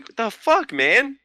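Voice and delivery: high angry yell; retold outburst. Player yelling at the guy who shot him, high angry yell. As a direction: snap at him, outraged. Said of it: "it's the only time I really outburst".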